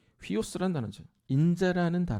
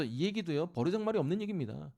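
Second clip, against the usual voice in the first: ordinary talk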